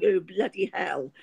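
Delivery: posh English swearing, drawn out; posher accent. Shown as a demonstration. Showing how she swears, posher accent. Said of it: "in a sort of posher accent".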